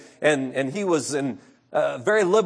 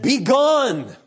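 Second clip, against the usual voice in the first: raging dying man; 2 semitones higher than usual. Retold or imitated. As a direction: drive them away in fury. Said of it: "He gnashed and raged at his friends".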